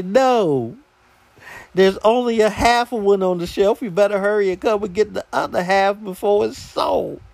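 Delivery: high-pitched, incredulous mock retort; exasperated comeback. Acts out unsaid sarcastic comeback.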